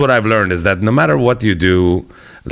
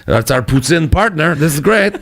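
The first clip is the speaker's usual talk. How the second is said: a higher-pitched mock gush of tourist excitement; excited tourist; 6 semitones higher than usual. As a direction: play up giddy excitement about the trip. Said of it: "And I was like".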